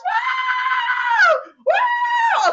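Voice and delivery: two long, very high whoops; fired-up whoops. Real, not acted. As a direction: let loose long cheering "woo"s. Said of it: "Getting fired up over here".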